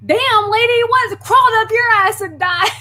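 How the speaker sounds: high, loud mock snapping back; hammed-up furious retort; retold angry comeback. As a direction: throw it back at the screaming woman. Speaker's retort in the quarrel.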